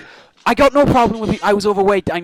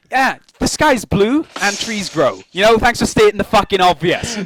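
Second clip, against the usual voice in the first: sarcastic retort. Retold or imitated. Imagined reply to a stranger complaining about herself, sarcastic.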